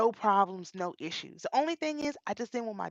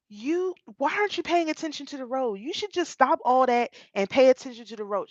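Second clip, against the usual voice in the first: grandmother's voice; 3 semitones higher, 3 dB louder than usual. Retold or imitated. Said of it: "She sounded exactly like my grandmother".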